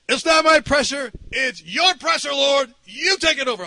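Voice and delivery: high, emphatic appeal to God; retold fervent prayer. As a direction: hand the burden firmly to the Lord. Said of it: "I was praying that".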